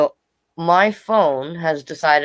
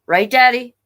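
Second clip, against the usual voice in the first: put-on pleading little girl; 7 semitones higher, 6 dB louder than usual. Sister appeals to father.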